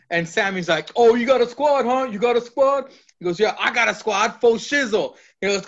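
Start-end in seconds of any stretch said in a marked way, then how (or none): 0.9-2.9 mocking echo. Retold mocking echo from Sammy. 3.4-5.1 put-on forced young lingo. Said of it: "I know the young lingo".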